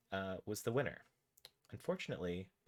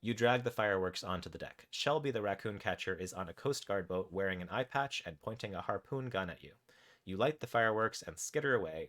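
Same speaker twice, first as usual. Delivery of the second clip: measured, animated game narration; story narration; 3 dB louder than usual. A narrator's reading. Narrator tells players what their raccoon does, story narration. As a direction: read the adventure out with deliberate pauses. Reads interactive story aloud.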